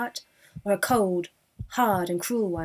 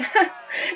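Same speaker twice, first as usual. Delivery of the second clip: mocking laugh; 4 dB louder than usual. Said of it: "they laughed".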